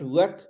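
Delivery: "work" as a quick wek; mispronounced work. Shown as a demonstration. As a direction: work with a short vowel, wek. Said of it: "It's not work".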